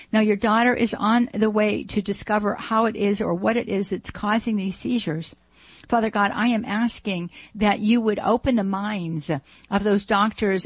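earnest, measured spoken prayer; a host praying over the radio for a listener's daughter. Acted. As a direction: pray it aloud, sincere and steady.

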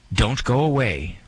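radio host sign-off. Retold or imitated. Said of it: "rarely do I say".

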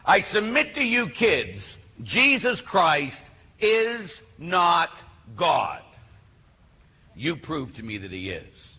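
high start, very slow and deliberate; attention-getting challenge. Retold or imitated. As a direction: throw down a provocative claim word by word. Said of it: "To get their attention, I say".

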